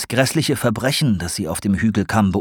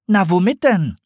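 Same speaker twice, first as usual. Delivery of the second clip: much higher, eager question; curious owl; 11 semitones higher, 3 dB louder than usual. A narrator's reading.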